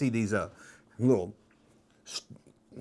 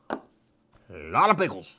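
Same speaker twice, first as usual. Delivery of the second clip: much lower and slower mock echo; 9 semitones lower, slower than usual. Echoing his own words to the camera, slow and low. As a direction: drag it out low, like a deep echo.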